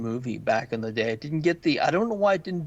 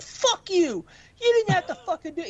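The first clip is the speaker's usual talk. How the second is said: put-on high screaming kid voice; angry kid; 4 dB louder than usual. Kid screaming at the wrestler, high and shrill. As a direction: shriek it like a furious young boy. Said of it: "He's like".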